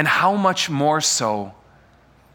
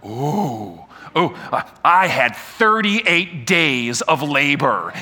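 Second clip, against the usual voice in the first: slow, groaning mock boast of a long labor; mock labor war story; 3 semitones lower, slower than usual. Mothers trading birth horror stories, slow mock groan. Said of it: "everyone's like".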